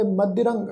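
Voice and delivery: ਮਦਿਰੰਗ ending in nasal rang. Shown as a demonstration. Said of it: "ਨਾਸਿਕ ਉਚਾਰਨ ਕਰਾਂਗੇ".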